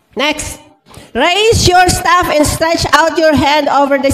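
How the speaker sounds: slow, emphatic congregational reading; scripture read aloud. Acted. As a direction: lead the room through the verse, stretching each phrase. (mabagal at madiing pagbasa ng Kasulatan)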